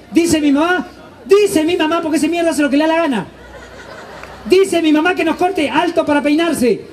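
lightly voiced mother sending boys to the barber; mom giving orders. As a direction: instruct the kids like a bossy mom. Mother gives haircut orders.

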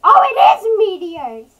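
high, loud mock alarm; imitating another player. Streamer imitating this guy seeing meteors, mock panic. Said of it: "This guy just like".

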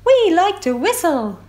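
bright high dolphin voice. Acted. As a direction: sing it out like playful dolphins. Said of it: "said a pod of dolphins".

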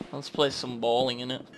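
rough London slang; cheeky chav voice, innit; chav accent. Pretend. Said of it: "Talking like a chav".

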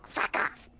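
whispered fuck off; unvoiced whispered curse. Real, not acted. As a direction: hiss it under your breath. Whispered repeat after yelling.

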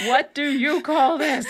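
asked through laughter; laughing. Real, not acted. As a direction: laugh as you repeat it. Joining the joke laughing.

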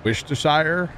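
Worcestershire tried as "wish-ta-shire", rising; unsure pronunciation. Real, not acted. Trying a hard word for chat, unsure pronunciation. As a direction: question Worcestershire, saying it "wish-tuh-shire". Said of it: "Is that how you say it?".

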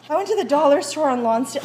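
breathless, rushing the words; gasping between words after rushing; out of breath. Real, not acted. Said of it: "Oh my gosh, I'm out of breath".

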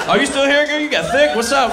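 hammed-up pickup line; sleazy Bill Clinton flirt. Bill Clinton hitting on someone.

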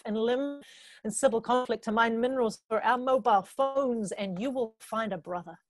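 spoken-word poetry with measured pauses; deliberate performance-poet delivery; poem recitation. Acted. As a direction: recite it as a poem, phrase by phrase, letting line endings fall away. Recites own poem on stage.

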